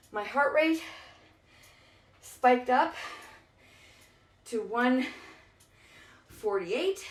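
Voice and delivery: panting between phrases; out of breath. Real, not acted. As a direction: talk while catching breath. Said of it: "why am I so out of breath".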